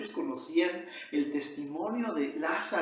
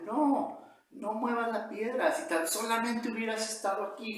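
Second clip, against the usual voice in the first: higher-pitched reproachful objection; angry protest; 5 semitones higher than usual. Acted. Sister reproaches Jesus at the tomb, angry protest. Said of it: "Marta enojada, un corazón enojado".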